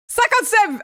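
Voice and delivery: excited shout. Real, not acted. Reading a new sub count aloud.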